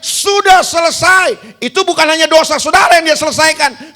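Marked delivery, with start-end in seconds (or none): 0.0-1.6 slow, raised shout of victory; triumphant cry. Retold or imitated. Preacher retelling Jesus' cry of victory: raised slow shout. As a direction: call it out as a victory cry, drawn out. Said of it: "Makanya dia teriak".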